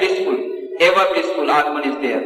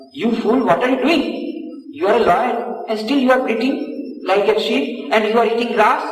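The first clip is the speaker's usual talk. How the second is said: higher-pitched rebuke as the big lion; scolding big lion; 6 semitones higher than usual. Acted. Big lion scolds the bleating small lion, indignant. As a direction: scold a foolish cub, voice lifted. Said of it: "this big lion comes".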